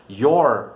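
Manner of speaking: "your" dito em inglês, caindo no fim; palavra inglesa. Shown as a demonstration. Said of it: "Por exemplo". ("your" com som inglês)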